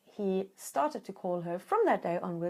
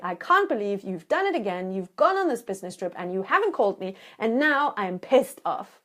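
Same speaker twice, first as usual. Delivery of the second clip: imitated angry voicemail; 4 dB louder than usual. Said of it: "the crocodile is the angry part of you".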